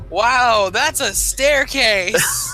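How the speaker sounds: loud, high, drawn-out wow; booming, awestruck announcement to the whole room; oblivious loud exclamation. Acted. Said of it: "you just go".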